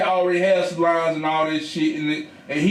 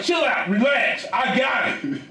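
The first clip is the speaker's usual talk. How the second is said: son to his mom, exasperated and raised; exasperated calming; 5 semitones higher than usual. Retold or imitated. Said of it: "I'm like".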